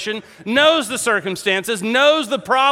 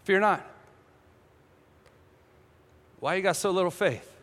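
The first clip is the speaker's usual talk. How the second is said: soft, calm, unhurried reply; acted hushed calm; unpanicked; 8 dB quieter, faster than usual. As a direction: answer the panic very quietly. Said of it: "but he doesn't panic".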